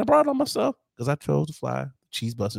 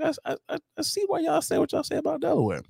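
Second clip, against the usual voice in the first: mock dismay; 13 semitones higher, 3 dB quieter, faster than usual. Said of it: "I was like".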